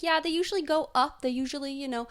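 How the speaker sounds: breezy imitation of an Australian host shrugging it off. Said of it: "I can't say it as good as you do".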